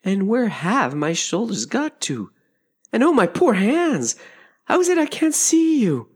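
puzzled, rising to high, dismayed wailing; mounting distress at a baffling loss; growing alarm. A narrator's reading. Alice alarmed at her lost body.

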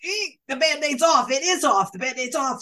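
high, rapid-fire re-enacted squeamish panic; acted-out horrified protest at a film; panicked refusal. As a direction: refuse over and over, pitched well up. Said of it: "I was going".

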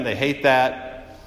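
drawn out, dismissive they hate that; lightly mocking, slowed right down; slow dismissive jab. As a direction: land it slowly with a weary shrug. Repeated mocking refrain.

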